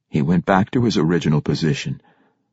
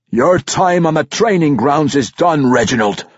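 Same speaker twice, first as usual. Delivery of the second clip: stern dwarf king; 7 semitones higher, 3 dB louder than usual. Acted. King's stern dwarf orders.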